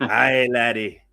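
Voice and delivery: light, slow Scottish burr as the cartoon duck; a slow Scottish Uncle Scrooge impression. Streamer imitating Uncle Scrooge for chat, slow mock Scottish. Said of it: "my favorite Scot is Uncle Scrooge".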